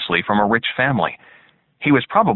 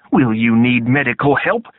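gruff drill sergeant; 3 semitones higher, 4 dB louder than usual. A narrator's reading. Sergeant questions.

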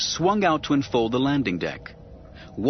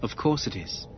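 equable; 4 dB quieter than usual. Acted. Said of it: "Obi-Wan said equably".

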